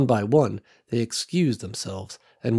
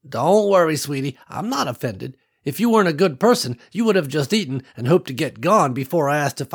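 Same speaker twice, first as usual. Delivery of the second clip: lightly voiced older woman, gently insistent; kindly old woman; 6 semitones higher, 3 dB louder than usual. Ruby telling Nicole the others need her, lightly voiced kindly old woman. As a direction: reassure her like a fond grandmother.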